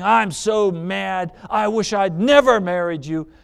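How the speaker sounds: loud, emphatic acted anger; mad wife. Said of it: "Just one minute before she was saying".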